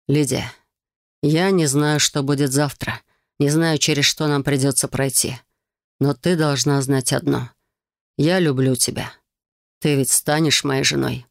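sultry narrator. Acted. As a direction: propose gently, voice low. Nadar's tender proposal.

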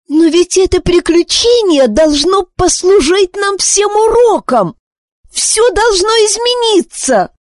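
put-on high girl's voice, pleading and urgent; bursting out. Wish bursts out at her mother, high and pleading. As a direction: she can't hold it in any longer. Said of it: "не выдержала Виш".

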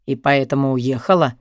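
put-on the boyfriend not believing her; distrustful male voice. A narrator's reading. Boyfriend on the phone, low and distrustful. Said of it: "с недоверием уточнил он".

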